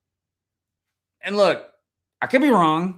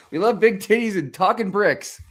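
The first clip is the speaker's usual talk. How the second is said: own emphatic echo; 6 semitones higher, 3 dB louder than usual. Real, not acted. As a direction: repeat it louder, pushing on big. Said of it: "repeats the kids' line".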